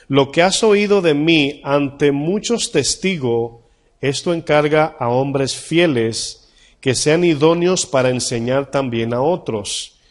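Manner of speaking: slow, measured Bible reading; scripture reading. Acted. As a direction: read the verse slowly and solemnly. Pastor reads scripture slowly. (lectura lenta y solemne del versículo)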